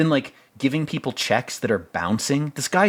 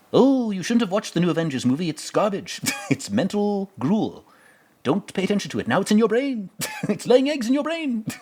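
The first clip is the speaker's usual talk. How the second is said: much higher, squeaky little fly voice with giggles; mock fly voice; 10 semitones higher than usual. Movie reviewer voicing a CGI fly on a man's face, high and giggly. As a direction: play the pesky fly buzzing in his ear, laughing.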